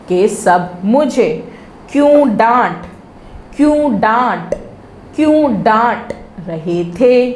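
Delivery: each chunk said three times, measured and clear; phrase-by-phrase dictation. Shown as a demonstration. Teacher to young pupils, slow repeat-after-me drill. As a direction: model each phrase slowly for the kids to repeat.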